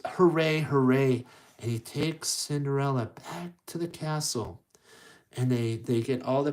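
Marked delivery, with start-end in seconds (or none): 0.1-1.3 loud hooray of celebration; cheering. Acted. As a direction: cheer it out loudly. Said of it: "then he goes".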